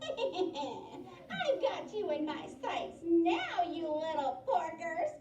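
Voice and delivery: slow gloating cackle, a witch's threat; cackling witch. Acted. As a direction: gloat and cackle through the words. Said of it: "she cackled".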